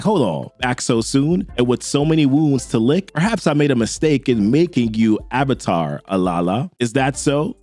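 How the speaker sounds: a hint of a stern patron scolding; old man. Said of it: "that old man ... he's like".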